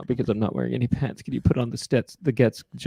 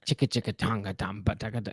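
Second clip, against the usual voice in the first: beatbox rhythm; 6 semitones lower, 9 dB quieter than usual. Shown as a demonstration.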